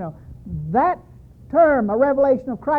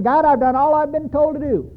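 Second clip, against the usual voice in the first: desperate prayer; 5 dB louder than usual. Retold or imitated. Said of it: "And I'm saying".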